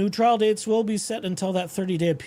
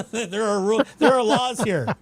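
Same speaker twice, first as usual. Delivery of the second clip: insisting there are laws; indignant insistence; 5 semitones higher, 4 dB louder than usual. Retold or imitated. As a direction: insist firmly, a bit louder. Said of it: "talking to myself".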